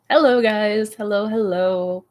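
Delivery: ordinary delivery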